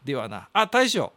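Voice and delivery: lightly voiced old man reading a letter; a hint of an old grandpa holding court; creaky wise old man. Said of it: "中の人格が出てまして".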